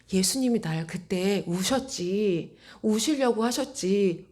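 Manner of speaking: slow, drawn-out pondering; lingering, wondering recollection; musing realization. Retold or imitated. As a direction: think it through slowly. Musing aloud on dawning realization.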